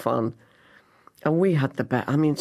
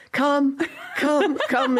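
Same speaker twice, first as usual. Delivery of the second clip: imitating a beckoning call; 10 semitones higher, slower than usual. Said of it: "then she goes".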